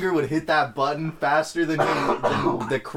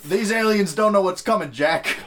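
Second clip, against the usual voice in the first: president voice; 5 semitones higher, 3 dB louder than usual. Pretend. Mock Biden address.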